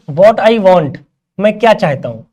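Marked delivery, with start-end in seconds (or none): 0.1-1.0 each word drawn out slowly for the class; teacher spelling out an example sentence; slow demo reading. Shown as a demonstration. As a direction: read the example very slowly and clearly. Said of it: "देखो".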